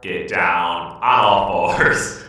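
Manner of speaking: a light robotic order to kneel; mock robot command. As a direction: bark it like a cold android master. Joins the robot command joke.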